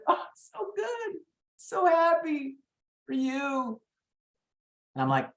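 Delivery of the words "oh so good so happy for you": high, slow sarcastic "so happy"; slow, high, mock-sweet forced cheer; fake congratulations. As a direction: grin through the disappointment. Forced congratulations after losing listing.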